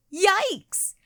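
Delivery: a high, loud startled yelp; yelled yikes. A narrator's reading. Girl startled by a flashlight-lit face, loud yelp. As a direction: jump at the spooky face and yelp it. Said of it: "yelled Janny".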